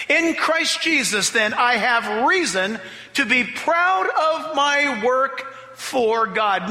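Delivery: slow reading, weight on in; slow scripture reading. Shown as a demonstration. Preacher reading Romans to the congregation, slow and weighty. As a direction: read the verse deliberately. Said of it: "Notice how the E S V puts it".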